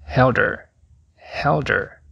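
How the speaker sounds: her dito "er", colado em held; H de her mudo. Shown as a demonstration. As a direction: diga held her sem o H. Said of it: "a letra H em her não é pronunciada". (her sem o som de H)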